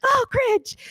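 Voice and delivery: put-on high sulky teen scoff; bored kid voice. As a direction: sneer it like an unimpressed kid. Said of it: "All the kids are like".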